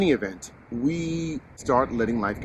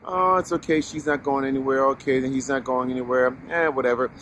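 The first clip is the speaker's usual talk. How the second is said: complacent shrug; 3 semitones higher than usual. Retold or imitated. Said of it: "I think we get really".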